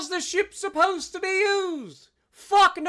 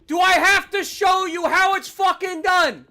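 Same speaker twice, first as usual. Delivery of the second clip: angry shout; 2 semitones higher than usual. Real, not acted. Raging at teammates in game.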